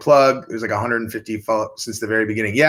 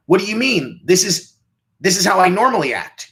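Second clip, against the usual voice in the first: higher, defensive mock voice of a clueless castmate; mock clueless reality star; 8 semitones higher, 3 dB louder than usual. Castmates on a reality show, mocked as baffled and defensive. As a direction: play the baffled castmate, pitched up. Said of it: "they're like".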